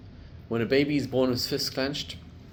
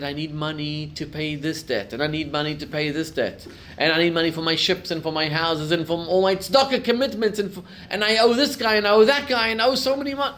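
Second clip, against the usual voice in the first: frantic pleading, climbing higher and louder; desperate pleading; 3 semitones higher, 5 dB louder than usual. Retold or imitated. Ruined rich man begging his Rebbe, frantic pleading. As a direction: pile up the debts in rising panic.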